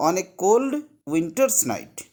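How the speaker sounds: on a cold winter's night said slowly, word by word; slow model phrase. Shown as a demonstration. Teacher modelling the fill-in answer to students, slow. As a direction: spell out the phrase slowly for the class. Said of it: "Suppose that one I am telling you".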